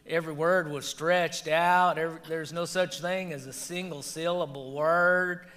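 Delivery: stretched-out Alabama vowels, lightly imitated; thick Alabama accent. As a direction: drag each word out, Alabama style. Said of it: "she would talk like that thick".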